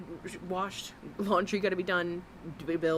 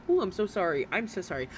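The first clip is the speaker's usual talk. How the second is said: mock apology; faster than usual. Mocking the streamer with a fake apology. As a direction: put on a fake sorry, lightly mocking. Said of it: "why don't you just say".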